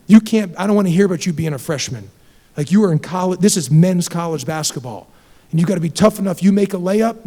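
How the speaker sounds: hard coaching without cursing; stern scolding. Retold or imitated. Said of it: "I just said".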